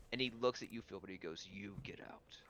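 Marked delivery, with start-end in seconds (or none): 1.4-2.4 very quiet, lower-pitched threat; hushed, seething dismissal; restrained vampire hiss. Acted. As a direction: barely voice it, holding back a hiss. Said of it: "the vampire hiss at you".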